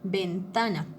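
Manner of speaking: "Ventana" with the middle syllable "ta" stressed. Shown as a demonstration. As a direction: lean gently on "ta" in "Ventana". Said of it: "mi voz tiene que esforzarse un poquito más". ("Ventana" con acento en "ta")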